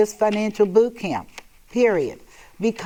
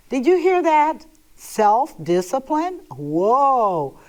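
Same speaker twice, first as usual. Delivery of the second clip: higher, drawn-out disbelieving "Self-discipline?"; mock astonishment; 5 semitones higher, slower than usual. Host teasing viewers about self-discipline, mock surprise. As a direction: act shocked at the idea. Host mocking audience reaction.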